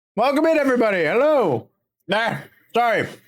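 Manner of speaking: speaking with full mouth. Host welcomes everybody to the party while eating; talking with a mouthful of pastry. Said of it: "You caught me with a mouthful of pastry".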